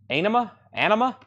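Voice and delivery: high rising question; unsure how to say it; puzzled question. Real, not acted. Host doubting the album title, puzzled rise. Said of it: "puzzled repeat of title".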